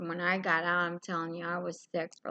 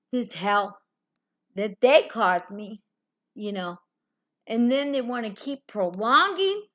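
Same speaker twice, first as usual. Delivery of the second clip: righteous anger; 3 semitones higher, 5 dB louder than usual. Real, not acted. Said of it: "I'm righteously angry".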